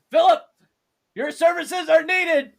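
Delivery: high, loud, slow summons; calling out. Acted. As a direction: call across the room for help. Calling out for the healer.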